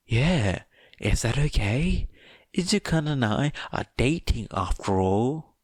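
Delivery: breezy and sure of herself; cheery Toga. Acted. Toga cheerfully claiming she's dating Izuku.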